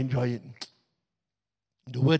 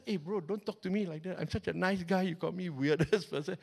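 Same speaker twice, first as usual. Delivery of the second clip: softer, mock-offended muttering; inner thought; 7 dB quieter than usual. Reverend's silent retort to the profiler, soft. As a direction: grumble it under your breath, hurt. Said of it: "And I thought".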